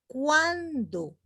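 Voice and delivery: "Cuando" con la U casi muda y la A resaltada; diptongo marcado. Shown as a demonstration. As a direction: di "Cuando" apagando la U, que suene la A. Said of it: "casi la U no se pronuncia, sino la A". ("Cuando" con la U apenas audible)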